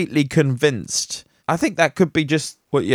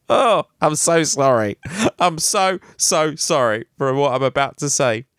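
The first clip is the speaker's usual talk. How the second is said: put-on terrible Texan accent; 10 semitones higher than usual. Podcaster mocking a Texas scientist in a hammed-up Texan accent. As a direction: ham up a cowboy reading the quote. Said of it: "That was a terrible accent".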